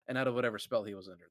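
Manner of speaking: quick retake. Real, not acted. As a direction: rattle it off to fix the flub.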